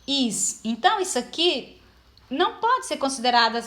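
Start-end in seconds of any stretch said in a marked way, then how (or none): 0.1-0.6 "pa-is" said in two separated syllables; syllable split. Shown as a demonstration. Teacher separating syllables of país for students, split clearly. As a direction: pause between "pa" and "is" to show the split.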